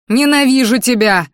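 high, loud outburst; screaming hatred. A narrator's reading. Girl hits the man holding her, screaming hatred. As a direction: hurl it at him. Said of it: "заорала я".

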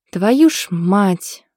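a touch of exasperated cursing; grumbling curse. Acted. Friend scrubbing burnt chicken off the tray, exasperated muttered curse. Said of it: "бурчала подруга".

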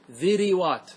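ذروات as dhi-ri-wat; three syllables in ذروات, "i" before the و; forbidden vowel echo. Shown as a demonstration. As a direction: copy the "i" onto the ر in ذروات. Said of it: "أن تتبع الراء حركة الذال".

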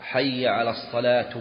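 الصلاة ending in a wrong u vowel; slow call with الصلاة closed on "-tu"; grammar-slip demo. Shown as a demonstration. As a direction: demonstrate الصلاة with a nominative -u. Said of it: "فلو قال مثلًا في الأذان".

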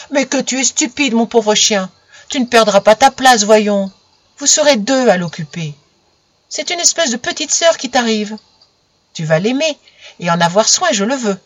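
a lightly voiced little girl scolding her dog; mildly stern, firm with the silly dog. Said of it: "sévère".

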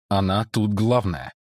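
ordinary delivery, nothing marked

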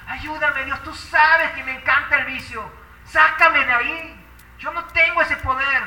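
pleading prayer. Retold or imitated. Acts out own plea to God. (súplica a Dios, recreada)

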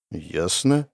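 low, soft muttered word. A narrator's reading. Hero mutters, feeling betrayed, low and soft. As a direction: mutter it under the breath. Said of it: "пробормотал я".

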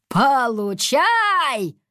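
loud, slow drawn-out cry; drawn-out triumphant shout; battle cry. A narrator's reading. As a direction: throw the leaves with all force. Hurls leaves at monster.

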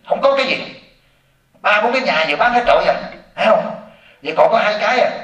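high, sharp complaining wife; wife's voice. Retold or imitated. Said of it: "con vợ nó sẽ nói thế này". (giọng vợ cằn nhằn, cao hẳn lên)

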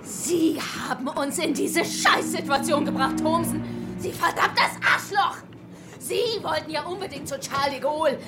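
angry accusation. Acted. Woman blames Thomsen in quarrel.

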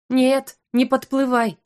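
a touch of fear, slowed down; frightened. Acted. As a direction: back away in fright. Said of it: "испугалась я".

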